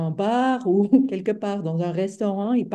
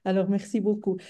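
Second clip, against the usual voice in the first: speaking French with a foreign accent; non-native French speaker. Real, not acted. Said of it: "Pardon, mon français, c'est pas très fort".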